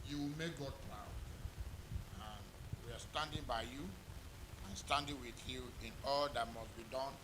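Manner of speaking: hushed, earnest blessing on the couple. Acted. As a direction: drop to a hush to close the charge. Quiet closing charge.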